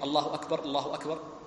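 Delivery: two takbirs linked in one breath; joined takbir pair. Shown as a demonstration. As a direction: keep the pair connected. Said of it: "متصلة".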